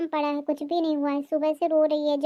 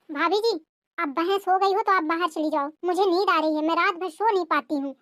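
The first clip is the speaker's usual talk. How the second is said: taunting sister-in-law; 2 semitones higher than usual. Acted. Sister-in-law sleepy dismissal.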